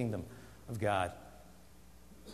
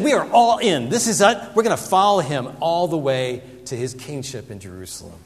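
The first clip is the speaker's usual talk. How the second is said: eager disciples; 6 dB louder than usual. Acted. Disciples voiced, eager commitment.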